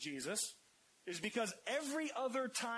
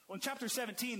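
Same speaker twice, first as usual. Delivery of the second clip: ordinary talk, nothing marked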